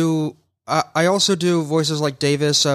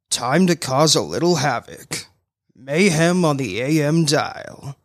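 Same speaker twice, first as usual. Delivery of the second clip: villain voice; slower than usual. Shown as a demonstration. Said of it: "give us a villain".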